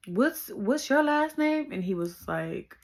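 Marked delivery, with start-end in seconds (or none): 0.1-1.7 high, slow sugary mom voice; mock sweet mother asking; mom's voice. Mom greeting her daughter's boyfriend, high and sweet. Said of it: "she was like".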